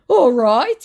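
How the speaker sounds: high, slow, syrupy put-on voice; mock scammer voice. Woman reading the scammer's message aloud, in a high mock voice. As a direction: ham up the creepy flattery.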